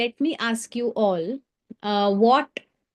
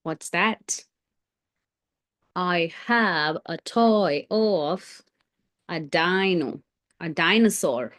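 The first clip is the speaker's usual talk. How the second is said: toy dinosaur voice; 5 semitones lower, slower than usual. Pretend.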